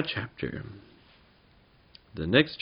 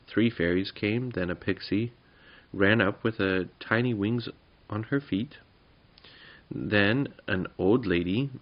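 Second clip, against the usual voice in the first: story narration. A narrator's reading. Reader telling the boys a goblin tale, story narration. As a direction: read it gently as a bedtime story.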